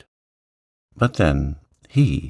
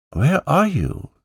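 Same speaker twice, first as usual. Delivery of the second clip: a higher call, mildly raised; shouting; 10 semitones higher than usual. Acted. Andrew calling up to the hidden children, a higher shout. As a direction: call out to find someone. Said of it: "shouted Andrew".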